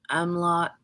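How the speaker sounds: "umlaut" as UM-lot; unsure "umlaut", first vowel as in "sum"; trying another pronunciation. Shown as a demonstration. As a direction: try "umlaut" with an uh at the start. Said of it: "I don't know how to pronounce it".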